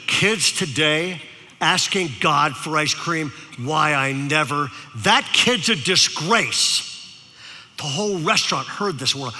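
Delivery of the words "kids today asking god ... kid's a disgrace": put-on bitter old woman. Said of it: "bitter, angry, vinegar for lunch women".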